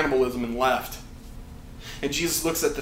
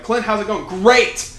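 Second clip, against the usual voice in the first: higher, upbeat retold chat; mock exchange; 7 semitones higher, 7 dB louder than usual. Preacher retelling being asked how it goes, upbeat. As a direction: act out the breezy false answer. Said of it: "I would say things like".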